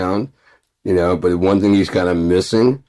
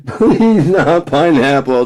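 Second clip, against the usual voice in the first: very high, loud, slow pleading wail; mock begging; 6 dB louder, much slower than usual. Pleading against pineapple toast, very high hammed-up begging. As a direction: beg for mercy, hammed-up.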